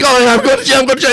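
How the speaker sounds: high, laughing cry of doom; hammed-up despair; mock wailing. Caught driver wailing he is going to jail. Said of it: "I'm like".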